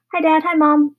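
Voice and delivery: put-on high, loud boyish greeting; cheerful. Boy greeting his parents at breakfast, cheerful. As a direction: chirp it brightly, pitched well up. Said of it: "he said cheerfully".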